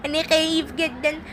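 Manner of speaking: high, whimpering, hammed-up sobs; mock crying toy. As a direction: wail about being lost, high. Simba alone, fake crying. (بكاء تمثيلي بصوت عالٍ)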